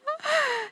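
quick high giggle; delighted little laugh. Real, not acted. Host praising the firecracker speaker, giggling.

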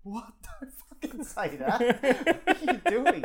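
high, loud panicked protest; half-laughing mock outrage at her. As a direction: squeal it out in horror. Retells panicking at girlfriend's intro.

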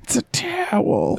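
dry gruff delivery; grizzled voice. Acted. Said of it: "I'm trying to do a home movies reference".

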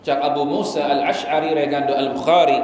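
ordinary talk, nothing marked

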